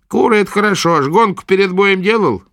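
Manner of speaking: high, loud crone's demand; gruff old witch. A narrator's reading. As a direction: prod the patient roughly. Witch asks.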